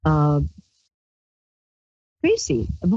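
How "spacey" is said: the word spacey floated up far higher, rising. Shown as a demonstration. Host describing her mood, saying spacey in a high dreamy voice. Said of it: "how can I put this".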